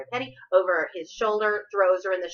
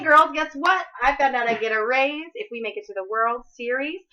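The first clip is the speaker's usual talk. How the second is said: louder, higher pep call; excited coach; 7 semitones higher, 5 dB louder than usual. Retold or imitated. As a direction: fire up the team. Coach pepping up the locker room.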